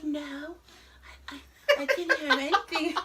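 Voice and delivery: mimicking the husband, high and laughing; laughing imitation. Retelling the husband's denial at dinner, laughing. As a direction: giggle through his dumb denial. Husband voiced in retold scene.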